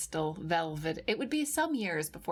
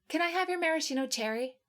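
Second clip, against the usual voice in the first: playful asking; 8 semitones higher, much faster than usual. A narrator's reading. Playful fast request.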